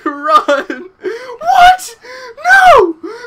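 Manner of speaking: very high, loud screams mixed with laughter; laugh-screaming. Real, not acted. Gamer fleeing a zombie leaping from ceilings, laugh-screaming. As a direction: shriek in half-laughing terror.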